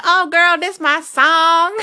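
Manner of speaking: high, loud Southern whoop with a drawn-out last word; mock Southern twang, belted high; Southern accent. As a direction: imitate an excited man's big Southern accent. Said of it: "this real southern accent".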